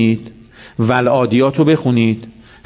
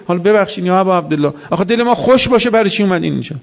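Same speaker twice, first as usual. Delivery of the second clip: high, quick, half-pleading challenge; lightly voiced questioning listener; mock challenge; 6 semitones higher, faster than usual. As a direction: act a heckler asking why he came. Imagined accuser questioning Hussein.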